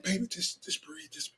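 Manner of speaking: soft, hushed imitation of a soothing wife; imitated quiet calming. Husband imitating wife calming him, hushed. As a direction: drop to a near whisper, as if calming him down. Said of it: "she's mastered that, that quiet".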